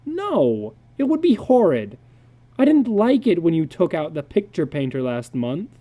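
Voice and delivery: a hint of a sulky young son; boy's voice. Son Peter to his father, a lightly voiced sulky boy.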